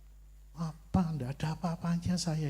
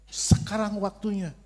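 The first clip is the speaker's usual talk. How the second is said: voice of God; 6 semitones higher, 5 dB louder than usual. Retold or imitated. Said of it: "begitu Tuhan ngomong".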